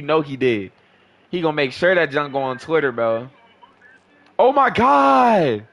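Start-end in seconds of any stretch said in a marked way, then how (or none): 4.4-5.7 amazed. Real, not acted. Reacting to a play.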